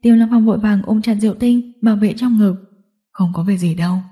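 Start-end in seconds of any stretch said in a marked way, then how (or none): 3.1-4.0 low, reassuring murmur; lightly acted reassurance, lower pitch; comforting. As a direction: soothe her in a low voice. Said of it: "anh an ủi".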